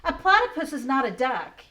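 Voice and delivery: slow, emphatic koala rhyme; koala lecturing. Acted. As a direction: spell it out like a fed-up koala.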